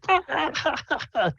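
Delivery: rimshot laugh sound. Acted. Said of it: "He starts laughing".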